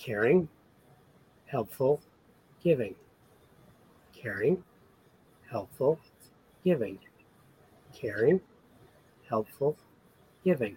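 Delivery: soft, gentle speaking voice. Repeating words in an exercise, imagining an audience saying them: softer voice. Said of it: "And now do it with the softer voice".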